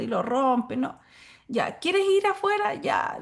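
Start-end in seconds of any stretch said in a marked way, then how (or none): 1.5-2.7 high, slow soothing offer; coaxing adult. Retold or imitated. Teacher offering an angry child a walk outside, slow and high. 2.7-3.2 short shouted ya; angry child. Retold or imitated. Angry child shouting back at the teacher. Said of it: "dice el niño enojado".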